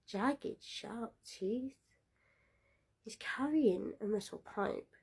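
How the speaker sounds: soft menacing whisper. A narrator's reading. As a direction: hush it to build dread. Narrator whispers creepy detail.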